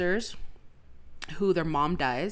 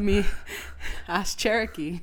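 winded, words between breaths; breathless after laughing; 3 semitones higher than usual. Real, not acted. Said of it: "I believe you're out of breath saying that sentence".

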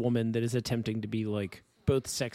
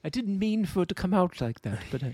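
sultry voice; 3 semitones higher than usual. Retold or imitated. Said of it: "the sultry voice tones".

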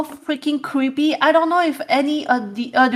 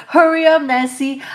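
impatient nagging; 2 semitones higher, 4 dB louder than usual. Retold or imitated. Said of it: "Lillian be like".

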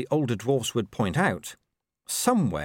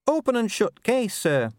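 brisk, higher dwarf voice reporting to her boss; eager young officer, pitched up; dwarf officer Cheery; 12 semitones higher, 3 dB louder than usual. Acted.

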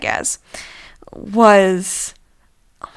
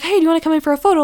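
fast invite; 6 semitones higher, much faster than usual. Retold or imitated. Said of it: "And they're like".

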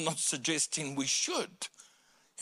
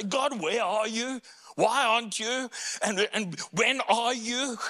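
higher pleading questions; higher plea to God; pleading cry; 6 semitones higher than usual. Retold or imitated. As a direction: ask God why, pleading. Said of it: "for David to say".

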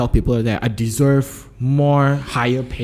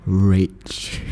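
ordinary talk, nothing marked

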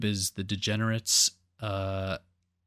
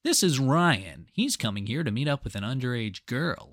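TV host narration; 3 semitones higher than usual. Retold or imitated. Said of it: "He's like".

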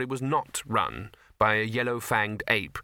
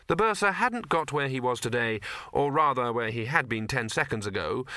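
ordinary delivery, nothing marked

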